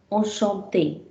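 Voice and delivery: enchanté 读作 o-shon-TAY, 尾音 é 下降; 慢慢示范 enchanté, 尾音 é 落下; French enchanté. Shown as a demonstration. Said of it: "Let me read the words once with you".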